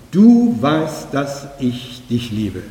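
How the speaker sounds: du weißt with du stressed. Shown as a demonstration. Preacher showing Petrus's stress on du. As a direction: lean on the word du. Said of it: "die Betonung auf du".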